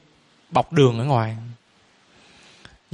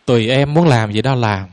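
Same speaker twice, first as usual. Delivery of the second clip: low, offhand husband brushing her off; indifferent husband; 6 semitones lower than usual. Retold or imitated. Husband answering his wife's questions, low and indifferent. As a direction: shrug it off in a lower voice like the silent husband. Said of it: "hồi ông nói chứ".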